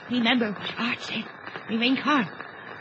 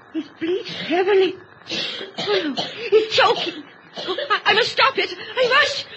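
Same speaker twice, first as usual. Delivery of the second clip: breathless, higher, panicky gasps; a wife panicking as the boy chokes on blood; gasping panic; 6 semitones higher than usual. Acted. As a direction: gasp it out in fright. Panics at the bleeding.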